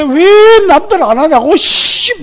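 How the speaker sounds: hammed-up, very high, loud slow whine; mock an exasperated grumbler, drawn out; grumbling. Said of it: "막 투덜대고". (과장해서 길게 투덜대는 흉내)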